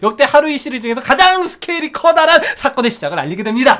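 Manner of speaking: brisk, run-on message reading; speed-reading. Shown as a demonstration. Co-host hurrying through a long listener comment, speed-reading. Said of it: "제가 최대한 빨리 읽겠습니다".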